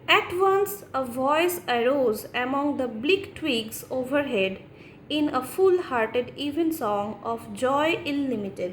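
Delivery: slow, measured verse reading; poem recitation. Acted. Teacher reciting Thomas Hardy's poem to students, slow and measured recitation. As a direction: recite slowly, giving each phrase room.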